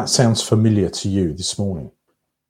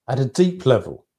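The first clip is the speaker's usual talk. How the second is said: whispered aside; faster than usual. Acted. Sermon, intimate reflective aside.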